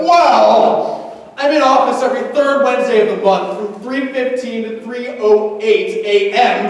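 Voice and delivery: a smug teacher making it impossible. Retold or imitated. Imagined sadistic teacher answering.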